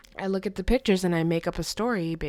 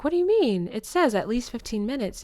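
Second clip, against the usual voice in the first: put-on indignant kid; 5 semitones higher, 4 dB louder, faster than usual. Child protests to her dad.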